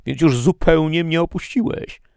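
very high, loud reproachful cry; calling out. A narrator's reading. Prisoner cries to the angel who abandoned him, calling out. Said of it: "zawołałem".

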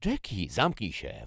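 high mocking name, then snarled order. A narrator's reading. Jackie silences her sister, snarling. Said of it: "warknęła".

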